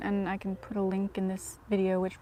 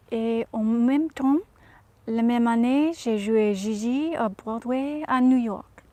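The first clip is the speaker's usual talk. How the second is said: Audrey Hepburn speaking French. Acted. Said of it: "as Audrey".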